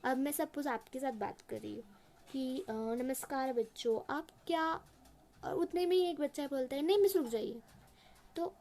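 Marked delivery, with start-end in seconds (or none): 2.6-4.7 teacher greeting class. Shown as a demonstration. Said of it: "suppose मैं एक example दे रही हूँ". 6.8-7.6 put-on interrupting child. Shown as a demonstration. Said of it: "ऐसे बात काट जानी होती है".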